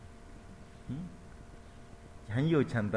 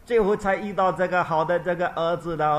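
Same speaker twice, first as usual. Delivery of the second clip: mock wailing; 6 semitones higher, 7 dB louder than usual. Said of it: "变那个他大哭".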